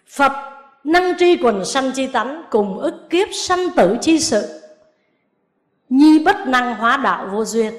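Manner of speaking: slow, measured chanting of the verse; sutra recitation. Acted. Nun quoting scripture to her lay students, slow recitation. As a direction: intone the scripture slowly, word by word.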